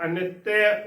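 ਅਨਿੱਤਯ with a doubled t, ending "te-a"; ਅਨਿੱਤਯ as careful "a-nit-te-a"; shown pronunciation. Shown as a demonstration. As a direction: open the half y at the end of ਅਨਿੱਤਯ. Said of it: "ਉਚਾਰਨ ਕਰਨਾ ਹੈ".

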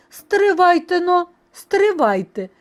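loud call to wait, easing in pitch; halting them firmly. A narrator's reading. Rooster stopping hungry mice, firm and loud. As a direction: stop them before they eat.

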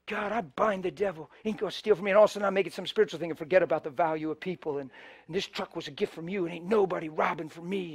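preacher mocking a false spiritual take; mock pious self-talk. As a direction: mutter it like a self-righteous believer. Mock religious deception.

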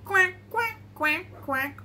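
high quacks stepping down; mother duck. Pretend. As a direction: quack brightly like a duck, dropping after two. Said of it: "Mother duck said".

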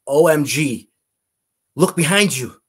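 loud, urgent imitation of an amazed onlooker; astonished exclamation. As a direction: call out in retold amazement. Retelling a stranger's astonished cry.

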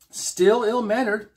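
high, slow, scornful; lightly voiced Trelane. A narrator's reading. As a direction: stretch it out with haughty disdain. Trelane mocking Spock, drawn out.

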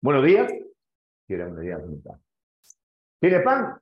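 a lightly put-on manly voice for the bitter lady; hint of a man's voice on a grumpy lady; mannish voice. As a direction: play the moustached customer with a gruff edge, lightly. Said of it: "y con voz de hombre".

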